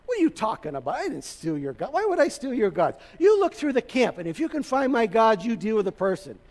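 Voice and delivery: mock-indignant protest, pitch jumping about; indignant denial. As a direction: act out a wrongly accused son-in-law. Acted quarrel, Jacob denies theft.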